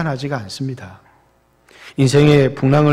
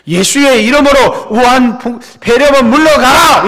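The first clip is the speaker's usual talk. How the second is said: much higher, loud hammed-up prayer shout; mock fervent prayer; 10 semitones higher, 9 dB louder than usual. Mocking how skeptics imagine prayer, hammed-up loud shout. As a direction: parody a shouting faith healer. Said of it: "이렇게 기도한다고".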